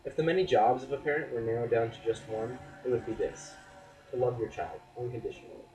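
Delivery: spoken-word delivery, lifting key phrases; earnest spoken-word poem; poetry recitation. Acted. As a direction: perform the poem with deliberate pauses. Recites second poem on parenting.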